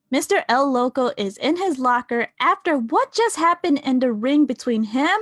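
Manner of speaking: ordinary talk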